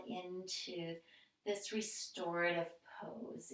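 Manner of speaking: soft, unhurried yoga-teacher voice with pauses; guided relaxation. Real, not acted. Yoga teacher easing the class into stillness, calm guided relaxation. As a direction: gently guide them through breath and movement, letting phrases settle. Leads breathing and gentle movement.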